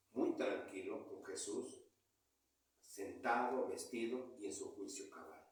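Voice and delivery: low, soft narration with pauses; hushed storytelling. A narrator's reading. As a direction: drop right down to show the calm after deliverance. Story turns to the calmed man.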